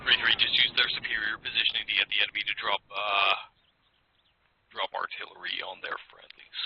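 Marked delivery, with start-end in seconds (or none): 4.7-6.6 low hushed aside; whispering. Real, not acted. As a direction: whisper it under your breath. Tactical radio in combat.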